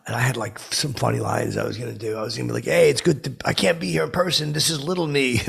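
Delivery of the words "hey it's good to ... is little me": phone voice. Pretend. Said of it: "I was gonna say that like the phone".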